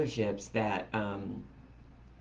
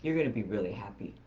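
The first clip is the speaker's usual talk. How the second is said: lower, softer, fast, with a knowing grin; sly grin; 5 semitones lower, 4 dB quieter, faster than usual. Retold or imitated. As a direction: tease it like you're hiding good news. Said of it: "he gets this little grin on his face".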